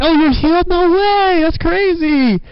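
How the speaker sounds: mock-shocked churchgoer; mock surprise. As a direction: ham up being amazed at a healing. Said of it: "We're not gonna be surprised about it, saying".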